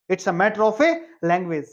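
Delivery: slow, careful teacher model line; slow model sentence. Shown as a demonstration. Teacher modelling the sentence slowly for students. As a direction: spell it out slowly for the class. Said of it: "ये किसका मामला है?".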